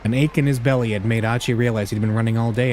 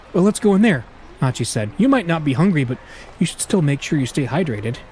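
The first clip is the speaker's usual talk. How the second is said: put-on raised, cheerful young man; upbeat young man voice; 4 semitones higher than usual. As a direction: coax her kindly but brightly. Achi voiced in story reading.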